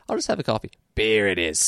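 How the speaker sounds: Simpsons-style cartoon Aussie; Aussie accent from The Simpsons. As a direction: mimic a cartoon Australian. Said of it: "the one from The Simpsons".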